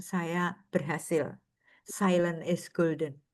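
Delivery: low, slow and soft; lightly voiced aged nun, contented; old nun's quiet pride. Aged nun telling former pupils at the reunion, low and slow.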